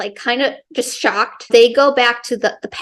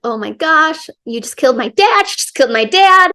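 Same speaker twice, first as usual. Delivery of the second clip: mildly hammed-up horror, higher and quick; acted shock; 4 semitones higher, 4 dB louder than usual. Daughter confronts her dad's killer, mock shocked outcry. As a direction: act out shocked disbelief, pitch rising.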